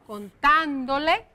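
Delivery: "contándole" slowly, with weight on "tán"; stress on á in contándole. Shown as a demonstration. Teacher pointing out another accent, "contándole" stressed on "tán". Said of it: "también tiene acento".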